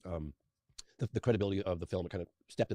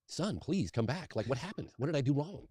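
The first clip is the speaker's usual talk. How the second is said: slow, higher pleading father; begging father; 7 semitones higher, slower than usual. Retold or imitated. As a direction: plead with your son to come back, very slowly. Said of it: "he was begging me".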